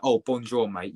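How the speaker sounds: French in a casual English accent. Shown as a demonstration. Streamer showing how not to speak French, English accent. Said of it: "you saying French and English".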